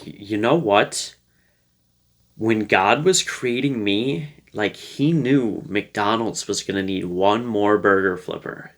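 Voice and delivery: slow, measured mock-grand declaration; playfully self-important, drawn-out delivery; playful reframing. Shown as a demonstration. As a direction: tell a tall tale of destiny, unhurried and tongue-in-cheek. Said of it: "that's just a playful way".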